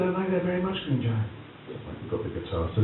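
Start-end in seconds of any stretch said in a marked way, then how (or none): 0.0-1.3 put-on high, grand old-actor voice; imitating Lawrence asking about his music. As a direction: ask with regal curiosity. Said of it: "He said".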